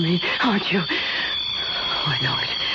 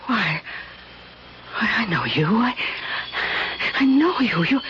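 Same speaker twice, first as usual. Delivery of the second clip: awed recognition; faster than usual. Acted. Hostess sees his face by matchlight.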